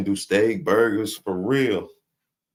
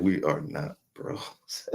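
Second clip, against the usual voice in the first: quoting him; 4 semitones lower, 4 dB quieter, much slower than usual. Retold or imitated. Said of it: "okay, he said".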